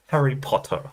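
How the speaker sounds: imitating British POTTER as POT-tah; playful British mimicry; mock British accent. Mimics her British pronunciation.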